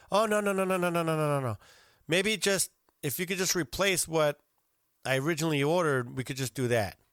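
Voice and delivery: imitating a fussy objection, starting high; protesting customer. Diner turning down free dessert, imitated protest. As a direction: rattle off the refusals high, then settle down.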